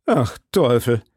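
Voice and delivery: mildly darkened exclamation; understated gloom after a brief relief; a touch of dismay; gloomy again. A narrator's reading. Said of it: "von neuem verdüstert".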